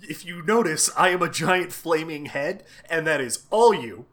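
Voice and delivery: loud, emphatic declaration of personal hatred; Mimir. Acted. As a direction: play the openly hostile advisor. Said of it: "being an asshole to him".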